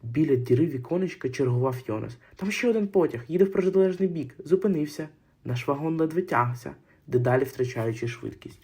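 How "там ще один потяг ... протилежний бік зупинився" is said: higher, lively call from the window; boy calling out what he sees; eager report of a train; excited call. Acted.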